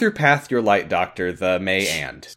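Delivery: prayer said word by word in reverse; backwards speech. Shown as a demonstration. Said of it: "I'll say it backwards".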